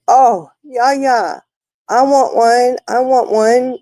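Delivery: put-on high, eager little-girl voice quoting her; grandma quoting her granddaughter's eager begging; imitating granddaughter. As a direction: mimic a grandchild begging for a cup.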